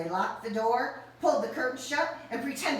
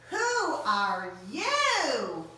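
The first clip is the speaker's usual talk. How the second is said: slow surprised; 4 semitones higher, 3 dB louder, much slower than usual. Acted. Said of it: "everyone gasped".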